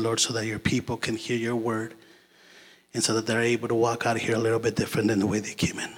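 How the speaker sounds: earnest prayer voice, quick at times. Acted. Guest preacher praying over his church, earnest prayer.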